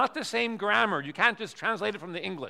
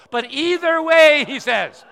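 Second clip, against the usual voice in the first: loud, higher, drawn out at first; emphatic verdict; 7 semitones higher, 14 dB louder than usual. Retold or imitated. Friend telling the visitor what he really said, loud.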